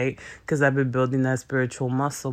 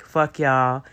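louder mock snap; 4 dB louder than usual. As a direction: tell them off dismissively. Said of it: "you could be like".

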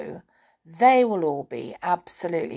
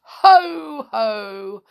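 high, louder ho ho from the teapot; teapot chuckle; 3 semitones higher, 8 dB louder than usual. Acted. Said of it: "with another deep chuckle".

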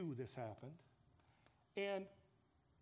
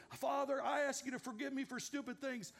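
retold hasty prayer; 6 semitones higher, 3 dB louder than usual. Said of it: "So he goes".

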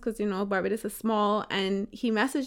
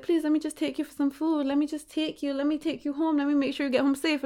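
imitating a pleading man, higher and softer; softly voiced mock plea; retold begging; 4 semitones higher, 4 dB quieter than usual. Woman retells date begging to take her home, pleading. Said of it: "begged me".

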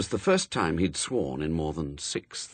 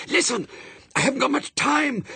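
high, strained urgent hiss; hissed shout; 4 dB louder than usual. A narrator's reading. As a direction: get it out urgently, half shouting. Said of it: "tried to hiss and shout at the same time".

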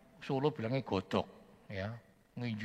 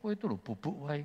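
much higher, louder at the end, exasperated fisherman; panicked complaining Peter; 12 semitones higher, 3 dB louder than usual. Retold or imitated. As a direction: scold the sleeping Jesus in mock panic. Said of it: "Petrusnya panggil".

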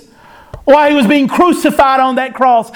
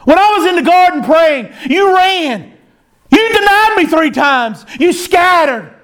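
higher, pointed mock rebuke of runaway disciples; imagined scolding yell; 5 semitones higher than usual. Preacher imagining Jesus scolding the disciples, mock angry. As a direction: scold them as a let-down teacher would, a bit higher. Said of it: "He didn't yell at them".

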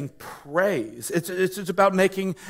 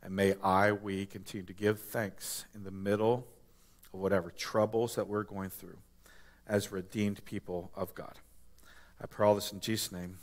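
soft, hushed closing prayer; quiet prayer; 6 semitones lower, 9 dB quieter than usual. Acted. Pastor closing in prayer, soft and hushed. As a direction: pray it gently and low to God.

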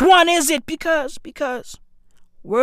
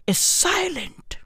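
whispered, higher, softer aside; mock whisper; 6 semitones higher, 6 dB quieter than usual. Shown as a demonstration. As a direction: hush it like a secret.

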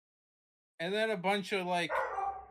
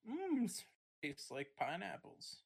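wine taster; 8 dB quieter than usual. Pretend. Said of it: "a little wine testing".

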